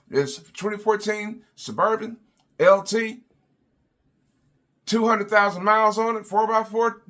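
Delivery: hammed-up car lot pitchman. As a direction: sell the junk Suburban like a TV announcer. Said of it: "that will turn around and say".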